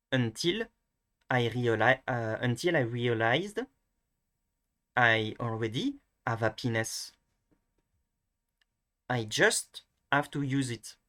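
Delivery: slow, phrase-by-phrase French-accented English. Shown as a demonstration. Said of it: "going to be the French one".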